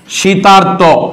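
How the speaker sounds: শীতার্ত sounded out with an audible R; teacher sounding out the R in শীতার্ত; demonstrated R sound. Shown as a demonstration. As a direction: say শীতার্ত carefully, letting the R be heard. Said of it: "আর উচ্চারণ হয় কিনা".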